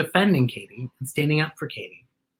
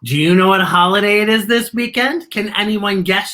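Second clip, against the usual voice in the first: bright, higher teacher voice; a kind teacher asking the class; cheerful teacher voice; 4 semitones higher, 5 dB louder than usual. A narrator's reading. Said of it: "Missus Brown claps ... asks".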